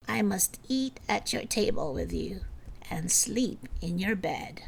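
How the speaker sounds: soft unvoiced whisper; whispering frog. Frog whispering his wish to the princess. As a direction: breathe the wish like a secret.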